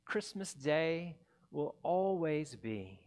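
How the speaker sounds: lightly recited carol lyrics; carol verse. Acted. The narrator closes with the Whos' carol, gently recited.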